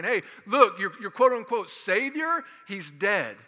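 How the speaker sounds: hammed-up Roman gloating at the followers; mocking taunt. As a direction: taunt the crowd with the body on the cart.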